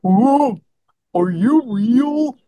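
slow, dreamy mock girlfriend; a hint of her dazed voice; imitating her voice. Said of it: "I'm gonna do her voice".

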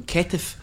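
"Ketif" said slowly in two syllables; "Ketif" for Keith, Romanian announcer's version; imitated foreign mispronunciation. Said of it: "the Romanian guy announcing, pronounced him".

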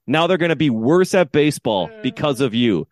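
re-enacted indignant lecture; shaming the umpire. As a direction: pile on the blame, stretching key words. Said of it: "and shaming him".

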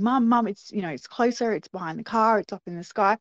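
put-on a touch of eager child calling Mum; excited children. Sisters reporting to Mum in the car, mildly excited. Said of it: "we're really excited and saying".

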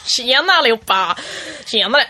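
hammed-up old-time Stockholm greeting; old Stockholm accent. Shown as a demonstration. Imitating dialects on request, old Stockholm accent. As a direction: hail everyone in broad old Stockholm dialect. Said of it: "jag tänker gamla stockholmska".

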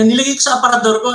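imitating the classmate's annoyed reply; upset classmate. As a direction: say it like a sulking kid. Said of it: "galit na galit yung kaklase ko".

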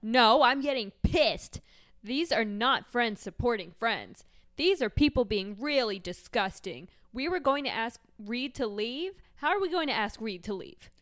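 mildly hammed-up reality-show outrage; indignant housewife. Housewife scolding unsupportive friends, mildly hammed-up indignation. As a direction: lean on the key words like an offended housewife.

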